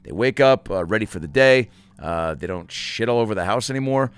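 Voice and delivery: lively, punchy sponsor read with asides; podcast ad read. Acted. Host reading a dog food sponsor spot, upbeat ad read. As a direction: sell it with jokey enthusiasm.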